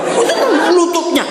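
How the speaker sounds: very high-pitched comic fussing; mock critical remark. Preacher acts Adam picking at Eve's knees, comically high. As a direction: squeal it high as a mock complaint.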